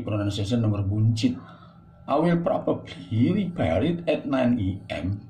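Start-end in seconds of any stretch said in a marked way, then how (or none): 2.1-5.3 slow, Indonesian-accented English with loose vowels. Shown as a demonstration. Teacher showing students that slow Indonesian-accented English is fine. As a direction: sound out the Indonesian accent slowly, and don't worry about it. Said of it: "Boleh ngomong begitu".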